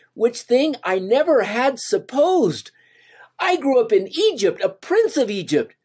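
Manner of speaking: whispered in wonder; awed whisper. Acted. Moses, stunned by the vision, whispers in wonder. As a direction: hush it as if overwhelmed.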